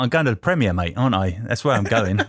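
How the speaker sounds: lightly put-on Penfield accent; a hint of the Penfield accent, chatty. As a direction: try the line in a matey Penfield accent. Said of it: "that's more the Penfield accent".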